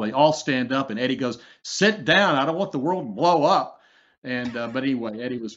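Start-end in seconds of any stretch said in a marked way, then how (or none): 1.6-3.8 higher, emphatic comedian's order; comic mock command. Eddie Murphy to staff standing up in the Situation Room, comic command. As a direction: bark a mock order with swooping pitch.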